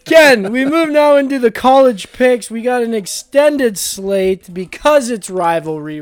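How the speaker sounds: punchy, projected host intro; segment announcer. Pretend. Host moves Ken into college picks, punchy announcer delivery. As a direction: kick off the segment loudly.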